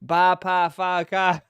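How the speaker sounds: loud mock Boston accent. Streamer parroting the Boston boyfriend's words, mock Boston accent. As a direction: drop every r like a Bostonian. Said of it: "why people make fun of the accent".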